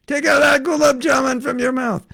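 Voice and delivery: high, loud mock scold; high teasing rebuke. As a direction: tease them sharply up high.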